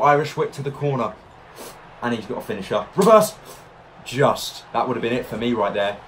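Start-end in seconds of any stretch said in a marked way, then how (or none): 3.0-3.3 shouted. Real, not acted. Yelling reversal in game.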